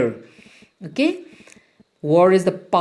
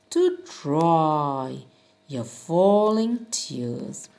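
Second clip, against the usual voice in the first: soothing father; slower than usual. Acted. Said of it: "and said".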